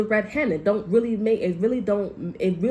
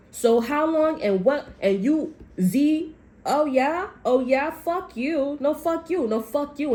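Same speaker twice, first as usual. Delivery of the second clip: high, hammed-up squabble; mock the bickering person in a higher voice; shrill-free high mock argument; mocking squabbling applicant; 7 semitones higher, slower than usual. Mimicking a quarrel at the merit test.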